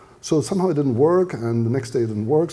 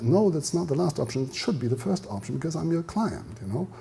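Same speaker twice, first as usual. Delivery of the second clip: politely firm objection, a little softer; restrained, polite pushback to the bank clerk; polite restraint; 3 semitones higher, 6 dB quieter than usual. Acted. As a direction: object with courtesy, temper held in. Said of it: "you still remain very polite".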